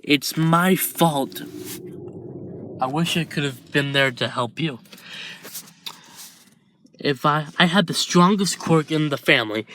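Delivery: guilt spilling out until it breaks loose; anguished confession. Acted. Izuku blaming himself to Shoto, anguished and rising.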